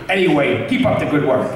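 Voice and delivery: put-on light, friendly old-man voice, lightly done; a gentle nod to Stan Lee's cheerful greeting; Stan Lee impression. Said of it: "as Stan Lee".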